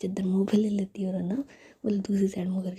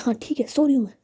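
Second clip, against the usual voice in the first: sulky, irritated whisper, a bit louder; annoyed reply; 4 semitones higher, 6 dB louder, faster than usual. Acted. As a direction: snap back in a whispered huff. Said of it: "फिर गुस्से में कहती है". (झुंझलाकर फुसफुसाना)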